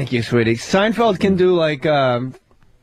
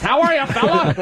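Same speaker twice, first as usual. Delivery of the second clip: white guy impression; 5 semitones higher than usual. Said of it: "Where's Dean's impression?".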